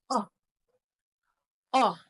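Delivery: "oh" said as the short o in dog; two separate short o vowels for "oh"; short O sound. Shown as a demonstration. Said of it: "like in dog".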